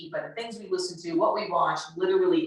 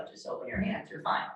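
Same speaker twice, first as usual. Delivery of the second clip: hushed, nearly whispered reassurance; soft and steady, calming; quiet, slow, low; 3 semitones higher, 6 dB quieter than usual. Shown as a demonstration. Teacher reassuring upset kid, hushed. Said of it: "how quiet it is, how slow it is".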